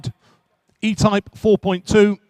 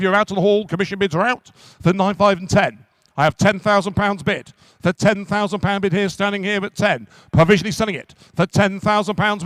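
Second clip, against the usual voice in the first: brisk auction-room patter, driving to the hammer; rhythmic auctioneer selling a classic car; auctioneer's call. Acted. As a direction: call the bids to the room and close. Auctioneer calling bids.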